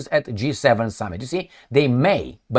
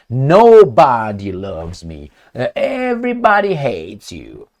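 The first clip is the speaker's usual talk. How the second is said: put-on childish absolutes; 4 semitones lower, slower than usual. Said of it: "Who talks in this kind".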